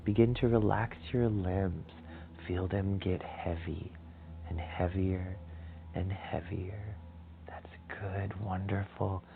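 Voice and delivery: calm, measured relaxation guidance with long pauses; soothing meditation leader, unhurried and gentle; guided meditation. Acted.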